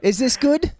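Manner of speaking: put-on Cockney accent. Intern seeks the guest's verdict, in mock Cockney. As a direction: ask it in a put-on English accent. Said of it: "I told him it was Cockney".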